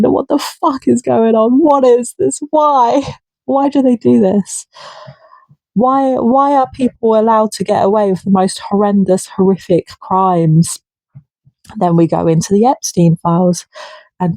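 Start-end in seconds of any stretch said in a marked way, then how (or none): 0.0-10.8 higher-pitched outraged questions; outraged questioning. Retold or imitated. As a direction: imitate an outraged viewer demanding why. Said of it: "is just as outraged as me and going".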